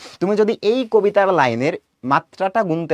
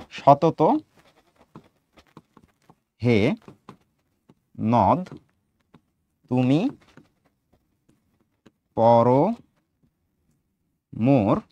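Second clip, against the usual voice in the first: long pauses between the words, lower pitch; 4 semitones lower, much slower than usual. Shown as a demonstration. Teacher giving pupils a poem line, word by word. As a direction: dictate it one word at a time.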